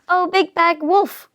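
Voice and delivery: slow, high, airy call; drawn-out, heartfelt exclamation; cried out. A narrator's reading. Missus Duck opening the door to wolf, crying out. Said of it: "cried Missus Duck".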